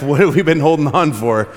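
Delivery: chuckling as you ask it; amused laugh breaking in. Real, not acted. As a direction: question spoken through a real laugh. Laughs retelling talk with dad.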